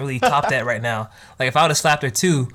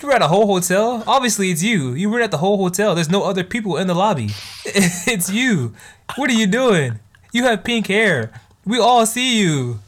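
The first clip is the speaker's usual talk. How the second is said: exasperated disbelief; 6 semitones higher than usual. Retold or imitated. Futuro catches Nino renting the whole hotel, exasperated and high. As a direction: scold her for the obvious hiding spot. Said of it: "He's like".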